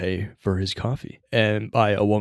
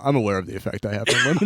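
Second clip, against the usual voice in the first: mock suave Idris Elba; faster than usual. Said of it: "the Idris Elba".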